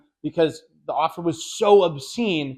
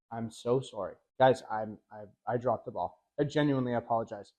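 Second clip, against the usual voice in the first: softer, lower, hammed-up heartfelt sorry; mock sincere apology; 5 semitones lower, 7 dB quieter than usual. Shown as a demonstration. Salesman faking a sincere apology to the client, softer and lower. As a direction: play the humble salesman begging forgiveness. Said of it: "from the bottom of your heart and with your best acting hat".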